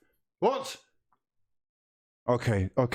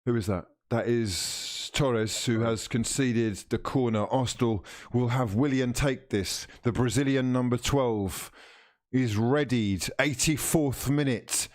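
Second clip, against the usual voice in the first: TV match commentator voice; live commentary; 3 semitones lower than usual. Acted. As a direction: call the match like a broadcaster.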